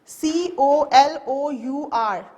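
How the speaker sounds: slow, letter by letter spelling; spelling aloud for students. Shown as a demonstration. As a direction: spell C O L O U R slowly, each letter apart. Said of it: "the spelling of the word color is".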